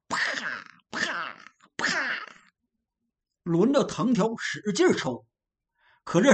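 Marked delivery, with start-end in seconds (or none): 0.1-2.0 mouth-made whip snaps; whip crack sound. Acted. Narrator imitating whip lashes on soldiers, crisp cracks. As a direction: smack out the lashes with the voice.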